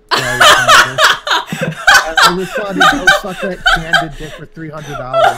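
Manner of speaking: high squealing laugh through words. Real, not acted. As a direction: barely get it out for laughing. Laughing while retelling his reply.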